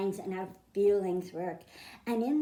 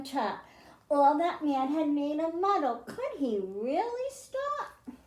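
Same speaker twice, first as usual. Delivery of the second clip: lilting read-aloud, rhymes and all; storybook reading. A narrator's reading. Teacher reading a rhyming picture book to children, lilting read-aloud. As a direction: read it to a class of kids, rhyming.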